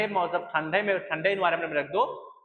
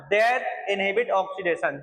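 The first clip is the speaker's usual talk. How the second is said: slow dictation; much slower than usual. Shown as a demonstration. Teacher dictating a definition.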